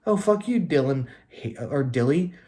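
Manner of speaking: a fantasy manager sneering at the league's winners; bitter loser rant. Retold or imitated. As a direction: whine it like a sore loser who got robbed. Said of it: "You're like".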